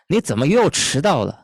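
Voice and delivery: high Mandarin chiding with a punch on 又; exasperated demo reprimand, falling at the end; scolding reproach. Shown as a demonstration. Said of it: "sikap bicara menegur".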